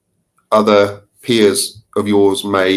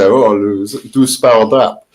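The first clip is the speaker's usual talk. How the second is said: slow French-accented "du sparadrap", savoring each syllable; much slower than usual. Shown as a demonstration. Guest savoring his favorite French word, in a slow French accent. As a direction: roll "Oh, du sparadrap" slowly off the tongue the French way. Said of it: "I don't say it in a very good French accent anymore".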